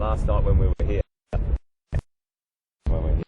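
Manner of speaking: jolted by bumps while talking; on a bumpy road. Real, not acted. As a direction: voice jostled on a rough drive. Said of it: "Sorry about the bumps here".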